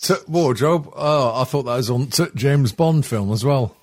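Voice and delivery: put-on a light Northern English accent, t' for the; half-hearted northern put-on; fake northern accent. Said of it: "Why are we talking in fake northern accent?".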